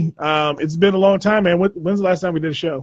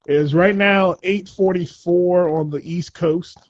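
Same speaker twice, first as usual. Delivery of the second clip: slow, measured newsreel announcer; old newsreel; slower than usual. Acted. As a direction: read the date like old newsreel. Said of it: "Why do you sound like an old newsreel?".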